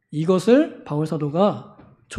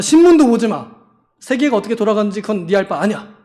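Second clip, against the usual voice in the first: scolding zealot; 4 dB louder, faster than usual. Retold or imitated. Mocking strict believer's commands.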